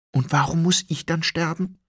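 high, loud despairing why; anguished question. A narrator's reading. Doomed Shen asking Hong why he must die, high and anguished. Condemned man asks why.

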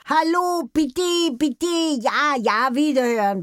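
high, loud squawked phone chatter; parrot on the phone. Retold or imitated. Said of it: "Er telefonierte gerne".

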